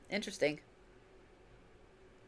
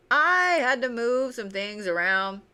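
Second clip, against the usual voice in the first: slow, higher, laughing retake; 5 semitones higher than usual. Shown as a demonstration. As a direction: laugh through it slowly.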